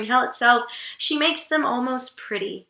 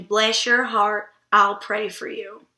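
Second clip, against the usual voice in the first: Southern woman; 3 semitones lower, slower than usual. Retold or imitated. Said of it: "a Southern woman saying".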